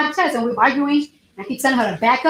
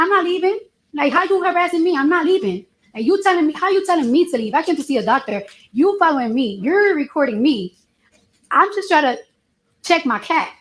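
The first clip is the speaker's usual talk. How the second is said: retold heated argument; 5 semitones higher than usual. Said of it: "we're literally screaming at each other".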